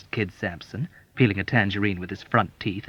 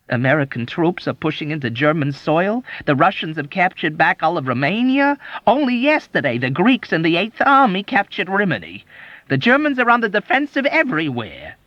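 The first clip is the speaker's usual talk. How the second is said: mock melancholy; 8 semitones higher, 5 dB louder than usual. A narrator's reading. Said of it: "turning to melancholy".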